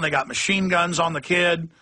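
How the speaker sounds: ordinary talk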